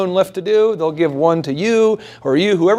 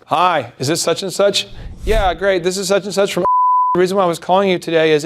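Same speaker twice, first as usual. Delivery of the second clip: scripted cold caller. Shown as a demonstration. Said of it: "it sounds like you're reading a script".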